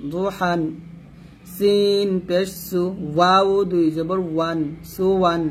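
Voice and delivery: measured recitation, long-held letter names; slow, even Qaida chant for learners to follow; Quran spelling drill. Shown as a demonstration. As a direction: spell it out rhythmically, syllable by syllable.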